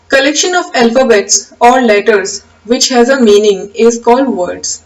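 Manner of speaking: slow, measured reading of a definition; slow dictation. Acted. Teacher dictating the definition slowly to the class. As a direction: read it out slowly so students can write.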